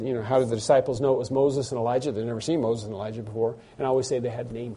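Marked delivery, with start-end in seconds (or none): 0.2-3.6 quick aside. Retold or imitated. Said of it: "I always said".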